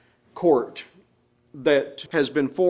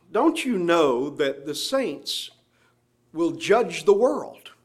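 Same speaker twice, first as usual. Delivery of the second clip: slower, each word laid out; unhurried, deliberate retelling of "Don't you know"; slow restatement; 2 semitones higher, slower than usual. Shown as a demonstration. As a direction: spell out the question slowly for the hearers. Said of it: "those are two interesting statements".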